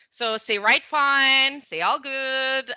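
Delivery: slow mixed French-English; slow chiac demo. Shown as a demonstration. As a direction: drawl the Chiac slowly. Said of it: "we speak Czech".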